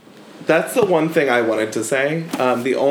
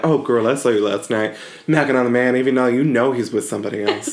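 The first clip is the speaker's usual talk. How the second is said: sassy gossip imitation; faster than usual. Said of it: "where it's like".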